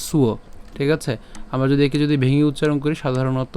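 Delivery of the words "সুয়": সুয় said as "su-o", s gliding through u; সুয় with a u-glide after the s; pronunciation demo. Shown as a demonstration. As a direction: show সুয় as one joined "suo". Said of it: "তাহলে উচ্চারণটা কেমন হবে".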